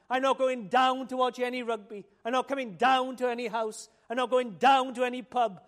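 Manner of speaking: "down" punched in each refusal; stress on down. Shown as a demonstration. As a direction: lean on "down" every time. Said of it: "Mark that word".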